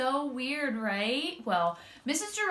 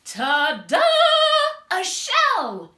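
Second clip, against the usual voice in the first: louder triumphant fanfare; ta-da reveal; 8 semitones higher, 9 dB louder, slower than usual. Acted. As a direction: present it proudly. Proud reveal.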